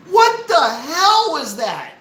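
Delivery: high, drawn-out exasperated demand; incredulous outrage. Real, not acted. Streamer scolds marketing department over music, incredulous outrage. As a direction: stretch the question out in disbelief.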